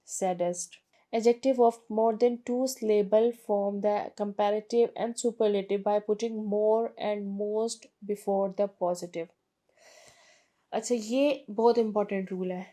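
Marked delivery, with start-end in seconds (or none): 1.1-9.3 slow, careful textbook reading; reading the rule aloud. Shown as a demonstration. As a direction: read the rule out slowly for students. Reads rule from book slowly. (धीमी किताबी पढ़ाई)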